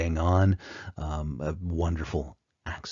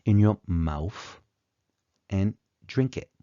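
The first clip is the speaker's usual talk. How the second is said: Cockney, "mouth" ending in an F; slow Cockney demo, TH turned to F and T softened; Cockney accent; 4 semitones higher, 3 dB louder than usual. Shown as a demonstration. Lecturer showing the lost sounds, slow Cockney accent. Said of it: "it has been replaced with an F".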